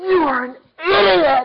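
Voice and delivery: shrill, very high, very loud screaming outburst. Retelling yelling at a driver who nearly ran them over, retelling a scream. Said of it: "I screamed out".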